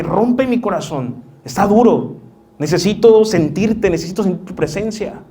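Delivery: said loudly. Shown as a demonstration. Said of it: "Díselo fuerte".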